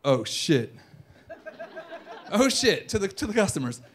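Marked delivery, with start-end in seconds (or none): 0.0-0.7 lightly acted lapse, pitched down; server's realization. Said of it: "And then he goes". 2.3-2.9 higher-pitched mock disbelief; incredulous echo. Repeats server's words in disbelief.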